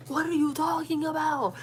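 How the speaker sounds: high, stretched-out disbelief; incredulous. Retold or imitated. Daughter answering mom's accusation, high and incredulous. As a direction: draw it out high, utterly baffled.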